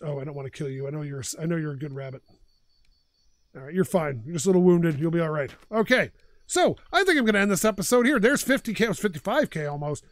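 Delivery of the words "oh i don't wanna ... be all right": tender words to a wounded rabbit; soothing. Real, not acted.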